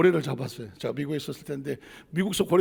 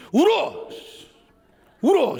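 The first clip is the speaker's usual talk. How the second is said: a father's loud yell, higher and louder; shouting at the doctor; 8 semitones higher, 4 dB louder, slower than usual. Retold or imitated. Father shouts at the doctor over his crying son, loud yell. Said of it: "제가 그때 뭐라 하는지".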